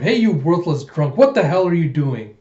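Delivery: loud scolding shout; calling out. Retold or imitated. Daughter calls out to her drunk father, loud scolding. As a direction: call out in loud reproach. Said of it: "calls out".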